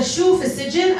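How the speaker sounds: high-pitched imitation of a mom's question; alarmed mother. Daughter acts out mother asking about jail, alarmed and high. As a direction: mimic a mother demanding an answer.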